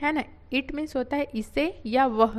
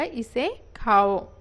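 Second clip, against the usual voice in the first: slow, clear teaching; 4 dB louder, much slower than usual. Shown as a demonstration. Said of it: "teacher repeats slowly".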